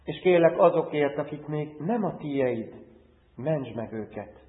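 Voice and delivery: earnest prayer in short, paused phrases; public prayer. Real, not acted. Pastor praying to God for his congregation, earnest prayer. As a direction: pray aloud for the congregation, phrase by phrase.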